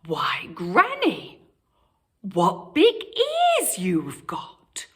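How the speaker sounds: put-on wary little girl. A narrator's reading.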